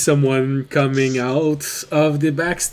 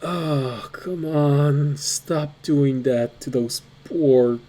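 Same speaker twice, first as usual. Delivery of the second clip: half-orc grumbling; much slower than usual. Acted. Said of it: "And you hear the half-orc say".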